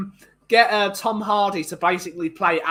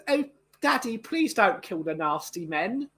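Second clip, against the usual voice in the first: mock whimpering plea, starting very high then fading softer; pleading daughter; 4 semitones higher, 4 dB quieter than usual. Mocking the daughter begging her father, whiny plea. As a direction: simper like a helpless little girl.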